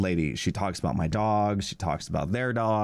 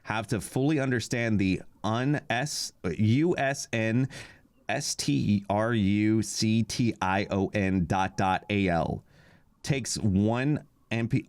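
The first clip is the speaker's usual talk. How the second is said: mock reading garbled email; slower than usual. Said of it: "read you the response I got".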